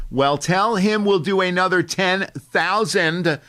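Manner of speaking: slow, loud, self-important dealmaking; showy phone dictation. Retold or imitated. Man dictating a deal for strangers to overhear, slow and loud. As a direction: perform the call so the whole room hears. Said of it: "they really wanna be overheard".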